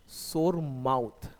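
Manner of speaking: 'सोर माउथ' drawn out slowly, each word clear; slow repeat. Shown as a demonstration. Teacher repeating 'सोर माउथ' slowly for students. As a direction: stretch out 'सोर माउथ' for the class. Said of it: "बोलते हैं सोर माउथ".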